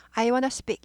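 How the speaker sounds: "I wanna speak" with wanna run together; casual American "I wanna speak"; wanna pronunciation. Shown as a demonstration. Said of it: "이렇게 발음하죠".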